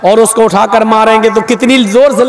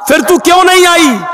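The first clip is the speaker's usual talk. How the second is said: higher-pitched, reproachful question; angry demand; 5 semitones higher than usual. Acted. Prophet asking the servant why she stayed away, angry. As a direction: demand the reason for disobeying. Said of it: "गुस्से में आए".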